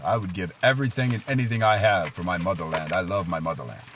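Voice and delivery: bold pledge in a mock Russian accent; bold Russian commander. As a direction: declare loyalty boldly, lightly Russian-accented. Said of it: "with a bold voice".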